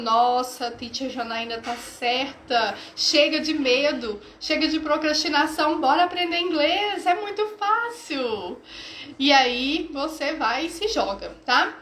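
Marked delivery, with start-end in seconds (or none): 0.0-8.6 mildly acted student celebration, building at the end; happy celebrating. Student celebrating that English is easy, happy mock cheer. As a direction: play a relieved learner cheering, rising toward the finish. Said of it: "vai ficando feliz, vai comemorando e vai falando".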